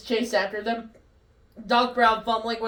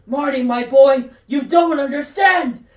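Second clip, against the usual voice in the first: grinning madly; 3 semitones higher, 4 dB louder than usual. Acted. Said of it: "Doc Brown grinning madly".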